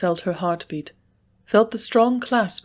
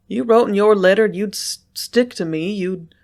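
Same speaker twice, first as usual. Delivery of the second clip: stammering, words catching in the throat; overcome, unable to finish; words choked off; 2 semitones higher, 5 dB louder than usual. A narrator's reading. Sloane to Lucy, too overcome to get the words out. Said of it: "He could not get the words out".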